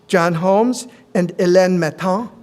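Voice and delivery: names said slowly in a self-mocking French accent; terrible French accent. Real, not acted. Speaker introducing the Eastern coordinators, self-mocking French accent. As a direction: attempt the French name Hélène Maton with a bad French accent. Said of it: "with my terrible French accent".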